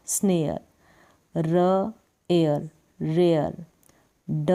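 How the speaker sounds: slow drill of onset plus एयर; teacher leading a pronunciation drill; practice drill. Shown as a demonstration. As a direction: sound out each onset slowly, then the whole word. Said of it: "उनकी भी आप practice करें".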